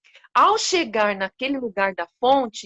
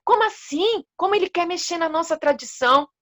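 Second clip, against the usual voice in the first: indignant protest; 5 semitones higher, faster than usual. Acted. Animals protesting the king's ban on their tradition, indignant. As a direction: pitch leaps up on the first question, then a fast outraged follow-up. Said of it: "o pessoal ficou muito bravo".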